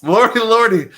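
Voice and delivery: high, loud folksy lady exclaiming; woman at the pool discovering her slip; southern lady. Retold or imitated. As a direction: play the surprised country woman. Woman voiced in retold story.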